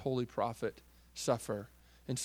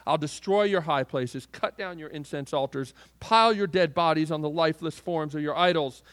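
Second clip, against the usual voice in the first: steady, solemn pronouncement of judgment; forceful scripture reading; 3 dB louder than usual. Acted. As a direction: read it out as God's stern verdict. Quotes God's threats at length.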